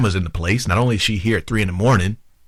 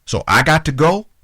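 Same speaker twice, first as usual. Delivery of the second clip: affronted, incredulous questioning; 2 semitones higher than usual. Retold or imitated. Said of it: "you made him feel like".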